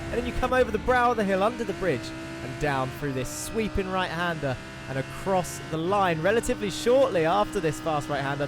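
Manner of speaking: brisk, lively onboard lap commentary; live play-by-play. Real, not acted. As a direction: talk viewers briskly round the circuit.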